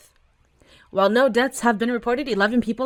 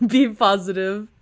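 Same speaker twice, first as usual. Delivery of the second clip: laughing; 4 dB louder, slower than usual. Real, not acted. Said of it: "I know that's supposed to be a blood joke".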